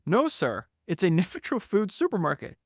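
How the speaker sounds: politely but firmly set him straight; insistent correction. Retold or imitated. Founder correcting Ben, mock insistent. Acted quarrel over the store.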